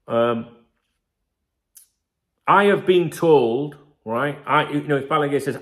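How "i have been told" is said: I HAVE been told, with a slow, louder HAVE; stress on have. Shown as a demonstration. Explaining claims to stream viewers, stressing have. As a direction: lean hard on have as a fact. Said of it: "Because think is an opinion".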